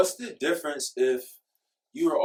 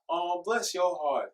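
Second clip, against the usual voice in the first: put-on Southern Belle accent; 3 semitones higher, slower than usual. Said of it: "Southern Belle, like, Alabama accent".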